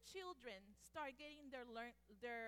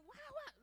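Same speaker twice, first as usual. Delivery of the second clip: mock baby crying; 13 semitones higher, 3 dB louder than usual. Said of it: "really loud".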